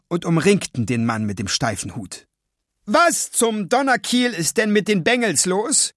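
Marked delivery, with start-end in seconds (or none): 2.9-5.9 angry outburst, pitched up high; shouting. A narrator's reading. Bank manager yelling at the intruding boys, angry. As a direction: bellow in outrage at the boys. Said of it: "schrie der Vorsteher".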